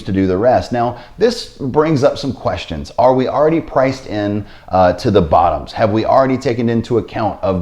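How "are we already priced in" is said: normal talking voice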